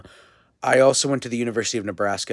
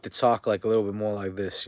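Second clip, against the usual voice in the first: lightly put-on American North accent; Northern US accent. Shown as a demonstration. Speaker comparing North with South, light Northern US accent. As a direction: contrast it with a touch of Northern US speech. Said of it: "versus the North".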